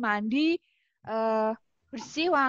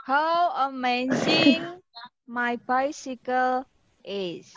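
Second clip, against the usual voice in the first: excited praise; 3 dB louder, much slower than usual. Retold or imitated. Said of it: "Wah, beli sepeda baru".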